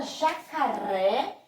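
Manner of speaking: "jacaré" slowed, rising onto RÉ; drawn-out "jacaré", final "ré" lifted; stress on final syllable. Shown as a demonstration. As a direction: lean on the last syllable of "jacaré". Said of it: "a sílaba forte é o ré".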